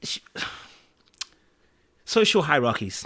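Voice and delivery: sigh, then whisper the words; searching for a polite phrase, breathed out; hesitant whisper. Real, not acted. To the podcast host, choosing words: sighed whisper. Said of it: "Let me just say it that, that way".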